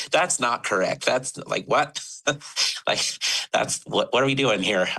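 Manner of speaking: baffled, breaking into a small laugh; retold disbelief. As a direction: act out a baffled objection mid-blessing. Retold shocked reaction to blessing.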